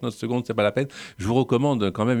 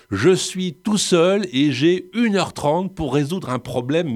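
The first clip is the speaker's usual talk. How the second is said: mock trailer voice; 6 semitones higher, 3 dB louder, slower than usual. Mocking Liam Neeson film formula.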